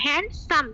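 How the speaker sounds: হ্যান্ডসাম split as hand, sam; two distinct beats on হ্যান্ডসাম; broken in two. Shown as a demonstration. Teacher repeating a two-clap adjective, broken in two. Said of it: "দুইবার ভেঙে বললাম".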